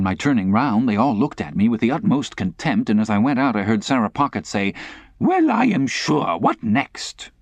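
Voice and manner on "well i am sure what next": scornful lady. Acted. Sarah Pocket.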